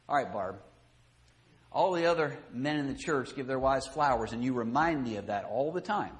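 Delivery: reluctant, begrudging gift speech; grudging husband. Retold or imitated. Husband giving wife flowers with grudging attitude. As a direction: hand them over resentfully. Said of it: "with that kind of an attitude".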